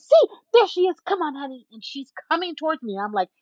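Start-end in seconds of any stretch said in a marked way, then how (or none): 0.0-1.7 high, loud, excited call; imitating an eager woman summoning her husband. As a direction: call across a parking lot, starting high. Stranger calls husband over.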